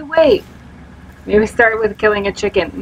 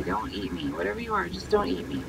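hushed, much lower pleading; scared plea; 3 semitones lower, 11 dB quieter, faster than usual. Real, not acted. Player hiding from an unseen creature, hushed and scared. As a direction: beg the monster quietly not to eat you.

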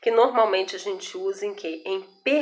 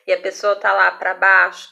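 ordinary delivery

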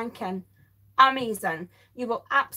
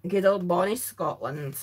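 lower, hammed-up Scottish lilt on "Good old bonny Scotland"; light jokey Scottish brogue, lower pitch; mock Scottish accent; 4 semitones lower than usual. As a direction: put on a playful Scottish voice as if from the family tree. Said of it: "I got some Scottish in my family tree".

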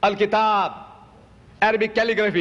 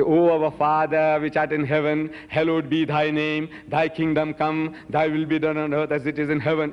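prayer recitation. Retold or imitated. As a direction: recite it on one note, unhurried.

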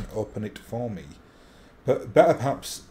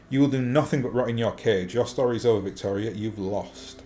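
mustache twirling villain. Acted. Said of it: "You talk like a cartoon villain".

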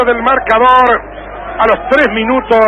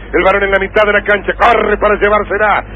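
play-by-play. Acted. Live play-by-play build-up.

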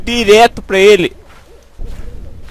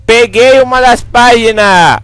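loud, higher, drawn-out cheer; triumphant announcement; 5 semitones higher, 5 dB louder, slower than usual. Real, not acted. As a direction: stretch it out slowly and proudly. Triumphant on finding a page.

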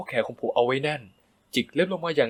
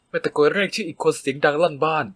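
plain reading voice

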